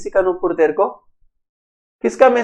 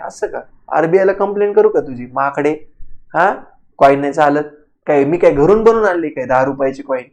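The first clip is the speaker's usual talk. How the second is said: Marathi retort; 6 semitones lower, 4 dB quieter than usual. Retold or imitated. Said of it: "उसको बोलना है".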